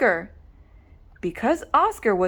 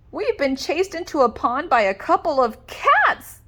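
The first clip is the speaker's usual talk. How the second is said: moaning; 5 semitones higher than usual. Acted. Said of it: "they moaned".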